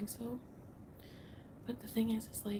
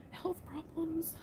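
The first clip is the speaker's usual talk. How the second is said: very slow, higher breathy echo; whisper; 8 semitones higher, much slower than usual. Real, not acted. Echoing her own words to viewers in a slow whisper. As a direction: repeat it slowly, barely voiced. Late night confession, husband asleep.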